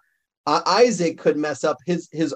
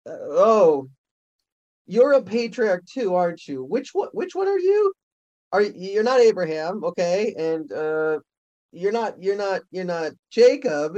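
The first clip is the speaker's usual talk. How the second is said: curious, pitched-up guessing; puzzled fan; 3 semitones higher than usual. Pretend. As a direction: try to place a half-known face. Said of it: "you go".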